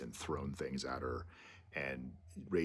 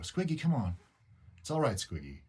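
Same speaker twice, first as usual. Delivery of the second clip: high coaxing pet call; 9 semitones higher, 4 dB louder than usual. Retold or imitated. Owner reassuring Squiggy on the back ledge, coaxing. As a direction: gently urge a hiding pet to come out.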